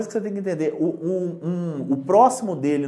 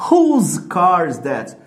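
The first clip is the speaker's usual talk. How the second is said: slow, loud model sentence; 7 dB louder, much slower than usual. Shown as a demonstration. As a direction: spell it out slowly and firmly for the class. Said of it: "Por exemplo".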